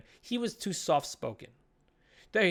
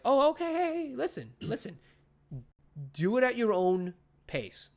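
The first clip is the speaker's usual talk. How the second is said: high placating start, then slowing down; cool, easygoing dad; 7 semitones higher than usual. Retold or imitated. Clark telling his son there is no rush, easygoing. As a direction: ease off gently, imitating an understanding father. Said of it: "being cool about it".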